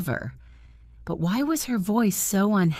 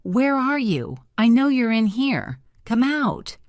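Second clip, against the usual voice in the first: calling out; 6 semitones higher than usual. A narrator's reading. Raoul calling out into the dark dressing room. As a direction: call out to someone hiding. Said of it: "then called out".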